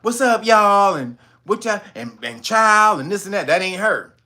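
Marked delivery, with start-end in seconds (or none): 0.0-3.0 louder casual slang quotes; mimicking Crockett's slang. Imitating Jasmine Crockett's slang for viewers, loud and casual. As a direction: toss off the slang like the congresswoman. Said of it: "when she's talking about".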